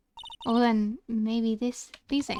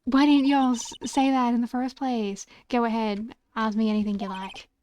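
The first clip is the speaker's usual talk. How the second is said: lightly played indignant Southern woman; half-hearted Southern accent. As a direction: attempt a country Southern twang, exasperated. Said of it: "you're getting a half-assed accent from me".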